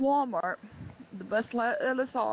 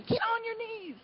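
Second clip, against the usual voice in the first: retold yelling; 12 semitones higher than usual. Woman just telling me over and over, high mock yell. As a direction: imitate her ordering in a high-pitched voice. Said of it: "screaming and yelling at me the whole time".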